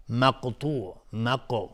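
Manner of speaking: مقطوع and مقو with a bounced ق; qalqala. Shown as a demonstration. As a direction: give the still ق in مقطوع and مقو a small echo.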